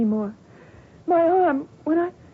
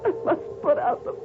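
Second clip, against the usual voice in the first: feverish dream narration. Acted. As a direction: let the dream drag you under. Dream voice-over of burning.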